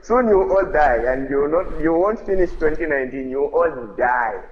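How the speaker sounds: high, loud prophetic warning; half-laughing, declare doom at him; retold warning. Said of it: "I was like".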